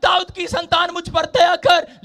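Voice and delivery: slow, loud begging cry for mercy. Retold or imitated. Blind beggars calling out to Jesus, loud slow pleading cry. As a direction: plead loudly and drawn out, calling to be heard. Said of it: "जोर जोर से चिल्ला रहे थे".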